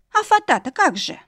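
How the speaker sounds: a worried maid fretting over the veil; Jenny, flustered maid. A narrator's reading. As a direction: maid running after the couple, anxious. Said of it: "всполошилась Дженни".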